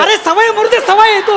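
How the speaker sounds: high-pitched irritated outburst; exasperated retort. Acted. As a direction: cut off the excuse angrily. Director cuts off the excuse.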